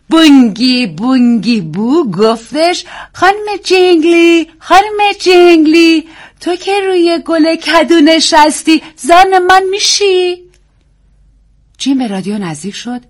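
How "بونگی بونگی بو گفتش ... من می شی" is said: put-on very slow, high, loud sing-song reading in an English accent; nanny reading a poem to a child in an English accent; nurse's English accent. A narrator's reading. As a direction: read the nonsense verse slowly in an English nanny's accent. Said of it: "لهجهٔ خالص پرستار خانوادهٔ سوئینی".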